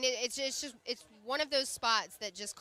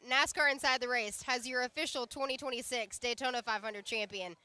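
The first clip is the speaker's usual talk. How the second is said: announcer intro. Acted. Introducing the champion on air.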